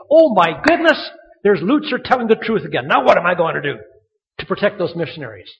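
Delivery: loud, hand-wringing mock dismay; mock distraught. Preacher imagines God fretting over the truth-teller, loud mock dismay. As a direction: exclaim in exaggerated worry. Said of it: "up there wringing his hands".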